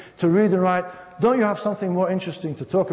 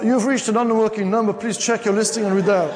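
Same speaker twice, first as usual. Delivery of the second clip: higher-pitched imitation recorded announcement; fake operator recording; 4 semitones higher than usual. Answering machine pretending the number is dead, fake recording. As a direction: recite it like a phone company recording.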